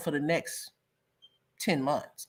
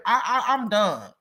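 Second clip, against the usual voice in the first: ordinary talk, nothing marked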